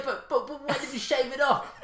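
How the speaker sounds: high, slow whiny fanboy voice. Retold or imitated. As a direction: whine it like a petty fanboy. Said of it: "they were like".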